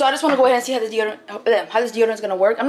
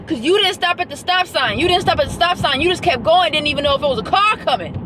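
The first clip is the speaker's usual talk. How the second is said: sarcastic scolding; 6 semitones higher than usual. Real, not acted. Scolding driver who skipped stop sign.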